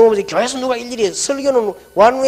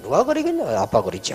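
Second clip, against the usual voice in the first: offhand dismissive wife; 7 semitones lower, 6 dB quieter than usual. Retold or imitated. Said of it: "하면서".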